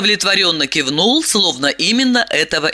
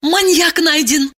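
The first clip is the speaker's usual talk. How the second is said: put-on rapid old-time reporter; 11 semitones higher than usual. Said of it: "скороговоркой выпалила Диана".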